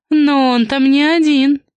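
loud, slow warning call. A narrator's reading. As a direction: call it out after her. Warning shouted after her.

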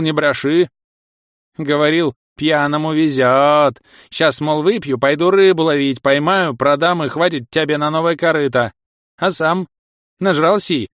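nagging village granny; scolding old woman. Acted. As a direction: scold him like a cranky old wife. Old wife scolds husband. (ворчливая старуха)

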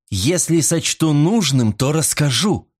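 high, slowed, furious retort; furious exclamation. A narrator's reading. Silvia furious at Mot's demand, high angry retort. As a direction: throw it back in fury. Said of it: "в ярости воскликнула Сильвия".

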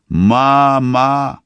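high, loud shout for mother. A narrator's reading. Daughter shouts to her mother through the fence, high and loud. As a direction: scream for your mother. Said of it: "кричит Циби".

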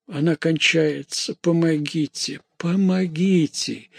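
high-pitched cry for help, slowing; distressed call. A narrator's reading. Mother sees daughter dying, distressed call. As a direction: plead for help, rising in pitch.

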